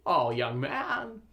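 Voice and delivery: put-on stammering, slow folksy old-movie voice; hesitant, polite Jimmy Stewart ordering; Jimmy Stewart impression. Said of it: "Just do Jimmy Stewart".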